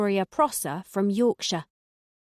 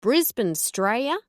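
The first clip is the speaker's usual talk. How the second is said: put-on a touch of an Australian accent; light Aussie, bit brighter; 4 semitones higher, 3 dB louder than usual. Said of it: "trying out my best Australian accent".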